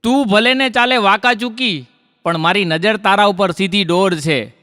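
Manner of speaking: lifted line openings, falling rhyme endings; poetry recitation. Acted. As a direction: declaim rhymed couplets to a crowd. Recites rhymed verse to audience.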